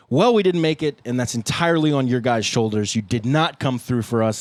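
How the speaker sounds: playful scolding, starting high and loud; mock blaming take. Bandmate recording the losing take for fans, mock blaming. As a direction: pretend to lay the blame on the fans, emphatically. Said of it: "let me do my alternate take".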